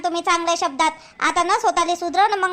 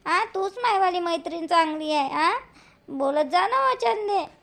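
pleading to make up; 2 semitones lower, 3 dB quieter than usual. Acted. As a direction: soften and beg her friend to talk again.

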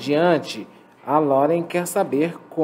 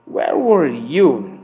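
very slow, where open and were closed; slow contrasting vowels; 4 dB louder, much slower than usual. Shown as a demonstration. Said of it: "Where, som aberto. Were, som fechado". (bem devagar, contrastando where e were)

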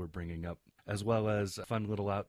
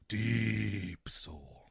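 drawn-out mock solemnity. Co-host teasing Nicholas once more, mock solemn drawl.

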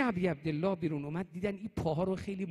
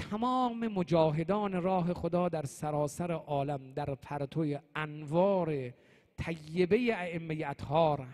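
supplication; slower than usual. Real, not acted. Closing supplication for the congregation.

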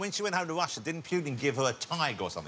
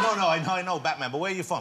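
lightly imitated insistent Welshman; Welsh accent; 3 semitones higher, faster than usual. Film extra pressing the star again, Welsh accent. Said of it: "this is a Welsh accent".

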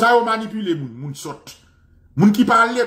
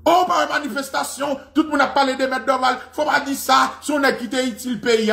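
high, sustained plaintive pitch; hammed-up high-voiced objection; mock protesting critic; 7 semitones higher than usual. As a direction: imitate people pleading in outrage. Acts out critics scolding him.

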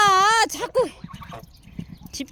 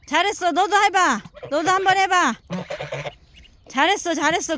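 talking to ducks; 3 semitones higher than usual. Real, not acted. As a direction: cheer the ducklings on. Praising ducklings swimming. (오리에게 칭찬하는 말투)

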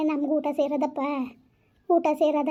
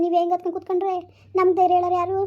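urgent scolding; 3 semitones higher, faster than usual. Acted. Urging the weeping one to eat.

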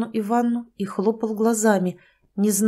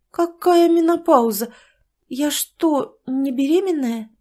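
higher, louder disbelieving question; shocked; 7 semitones higher, 4 dB louder, slower than usual. Acted. Tatyana questions the doctor, higher and shocked. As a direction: sound alarmed and indignant.

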